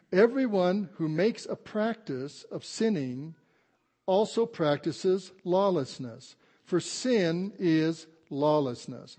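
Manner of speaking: slow, emphatic pulpit reading; scripture reading. Acted. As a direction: read the verse out slowly, word by weighty word. Reads scripture to congregation.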